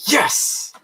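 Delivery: excited. Real, not acted. Relief on finding the drink.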